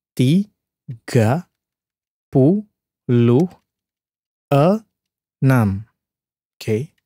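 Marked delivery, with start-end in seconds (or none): 0.1-5.9 "tiga puluh tiga" split by syllables, slow; sounding out words. Shown as a demonstration. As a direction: say "tiga puluh tiga" word by word with pauses. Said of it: "if I break down into syllables".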